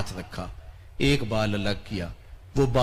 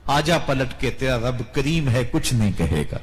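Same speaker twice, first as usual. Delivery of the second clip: pleading call. Acted. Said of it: "رب بھی کہتا ہے".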